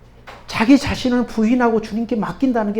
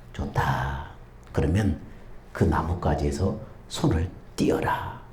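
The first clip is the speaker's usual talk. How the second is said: voice of God; 14 dB quieter, slower than usual. Acted. God commands.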